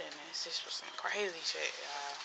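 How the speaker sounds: hushed spooky whisper. Real, not acted. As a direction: breathe it out like a secret. Spooky story told to camera.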